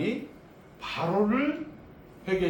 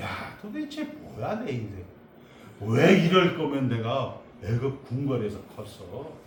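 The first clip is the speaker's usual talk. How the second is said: mock temper tantrum. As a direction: grumble as Moses, building to indignant questions. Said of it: "모세는 거기서 승질을 내는 거예요". (짐짓 성질내며 투덜대듯)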